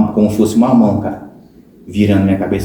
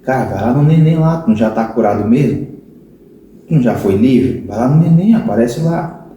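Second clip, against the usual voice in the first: tempting inner voice. Retold or imitated. Tempting voice in his head urging him back to Neném, lightly coaxing. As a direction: coax him like a little devil on the shoulder. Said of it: "outra voz ficava aqui".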